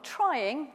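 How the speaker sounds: trying drawn out slowly; stress on trying. Shown as a demonstration. Preacher stressing trying to the congregation, slow. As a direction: lean hard on trying. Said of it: "the emphasis on the word trying".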